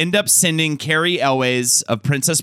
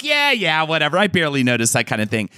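dismissive; 2 semitones higher than usual. Retold or imitated. Host imitates her past self to the group, dismissive. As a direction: brush it off like you couldn't care less. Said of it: "And I was like".

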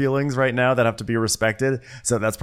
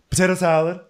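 high mock-cheery question; imitated perky hostess, pitch raised; 9 semitones higher, 4 dB louder than usual. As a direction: pop back in with an oblivious food offer. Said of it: "She's so cheery about it".

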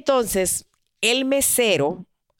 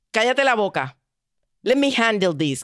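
rude command; 3 semitones higher than usual. Retold or imitated. Man silences his girlfriend, rude and curt. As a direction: shut her down rudely. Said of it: "tan grosera".

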